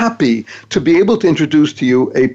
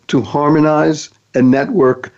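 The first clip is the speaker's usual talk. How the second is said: slow, each word weighed; slow deliberate acronym read; slower than usual. Shown as a demonstration. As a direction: lay out the acronym slowly. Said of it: "Thank stands for".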